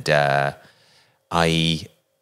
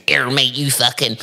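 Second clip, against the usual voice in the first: put-on light Bristol accent jeer; imitating Bristol bullies; 5 semitones higher than usual. Retelling bullies approaching him, light Bristol accent. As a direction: toss it off like a West Country bully. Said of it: "they're like".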